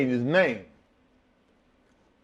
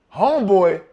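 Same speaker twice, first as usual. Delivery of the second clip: disbelieving echo; 6 semitones higher, 9 dB louder than usual. Retold or imitated. Partner's disbelieving question.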